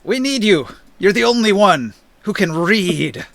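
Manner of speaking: pleading. Acted. Orin pleads with raging Taurus.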